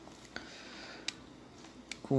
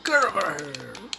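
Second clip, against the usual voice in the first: Scorpion catchphrase; 3 semitones higher, much slower than usual. Retold or imitated. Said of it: "quero fazer o Scorpion".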